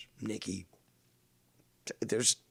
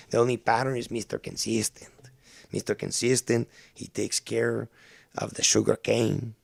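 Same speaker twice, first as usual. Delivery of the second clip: hammed-up Latino accent; mock Spanish accent; 3 dB louder than usual. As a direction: play it up with a put-on Spanish accent. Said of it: "doing the Spanish accent for Seaman".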